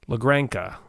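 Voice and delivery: La Granca with a hard k, GRAN-ka; the Granca version. Shown as a demonstration. Trying the friend's pronunciation of the title. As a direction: say La Granca the way Eric does. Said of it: "Eric calls it La Granca".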